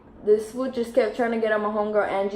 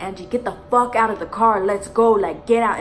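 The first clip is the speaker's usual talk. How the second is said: louder retold urging; raised-voice mock urgency; urgent command; 5 dB louder than usual. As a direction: hurry a friend out of the car. Retold urging friend out of car.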